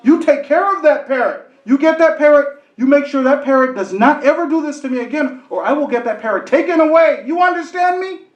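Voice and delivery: mock furious complaint; angry lady. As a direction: lay down the law to the owner. Angry lady scolds the owner.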